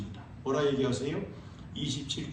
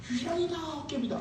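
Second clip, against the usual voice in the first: mock ghost cry; 10 semitones higher, 5 dB quieter than usual. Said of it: "mocking disciples' cry".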